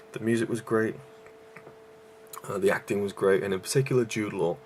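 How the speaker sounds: breathless between phrases; short of breath, gasping lightly. Real, not acted. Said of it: "I'm really out of breath tonight".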